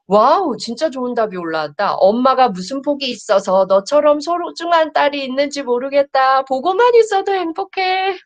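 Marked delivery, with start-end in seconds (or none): 2.0-8.2 tender parent voice. Acted. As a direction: read out as a mother speaking to her child, a bit higher. Reads tender mother message. (아이에게 말하듯 다정하고 높은 목소리로)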